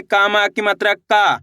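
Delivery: final "का" held long, falling at the end; drawn-out vowel. Shown as a demonstration. Teacher showing learners the आ matra, "का" drawn out. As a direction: stretch the vowel of the last "का". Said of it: "खींच के पढ़ेंगे".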